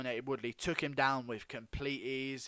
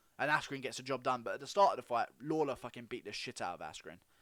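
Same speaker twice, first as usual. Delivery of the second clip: normal talking voice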